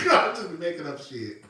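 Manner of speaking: giggling while she talks; laughing through words. Real, not acted. Host cracks up at her own made-up candy names. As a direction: let the laugh break the words.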